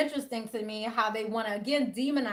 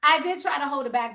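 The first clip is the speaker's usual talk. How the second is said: correcting herself; 5 dB louder than usual. Real, not acted. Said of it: "Let me check myself".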